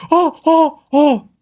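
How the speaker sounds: high, excited crowd "oh"s; crowd reaction. Retold or imitated. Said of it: "that's gonna get everybody going".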